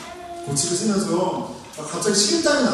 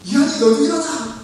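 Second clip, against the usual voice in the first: high, insistent mock wake-up call; imitated parental yelling; 7 semitones higher, 3 dB louder than usual. Parent waking the other child, mock yelling. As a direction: call out to a second sleeping child. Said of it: "이렇게 소리를 지릅니다".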